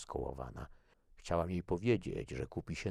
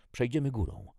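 raised, high-pitched decision; urgent order; 9 semitones higher, 5 dB louder than usual. A narrator's reading. Jackie leading her sister over the rubble, urgent raised voice. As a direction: take charge with a high, louder call.

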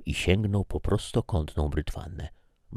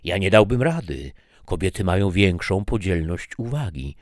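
mildly higher, louder sarcastic comeback; annoyed retort; 4 semitones higher, 4 dB louder than usual. Acted. Wife retorting to husband's praise, irritated. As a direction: throw his words back at him.

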